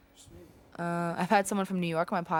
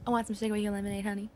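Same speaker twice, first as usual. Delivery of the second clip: sweet-talking Southern belle accent; 3 dB quieter, faster than usual. Shown as a demonstration. Southern belle offering sugar with lemonade, Southern accent. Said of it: "and then a southern belle".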